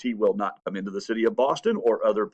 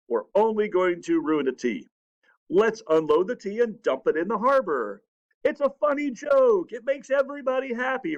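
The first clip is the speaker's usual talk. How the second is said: much higher, giddy with the prank idea; gleeful scheming; 6 semitones higher than usual. Retold or imitated. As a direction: sell the plan like a mischievous ringleader. Sam Adams pitches his prank idea.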